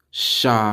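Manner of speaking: "Shabbath" as sha, pause, bath; final th. Shown as a demonstration. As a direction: end "Shabbath" on a drawn-out th. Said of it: "That's how you say Sabbath".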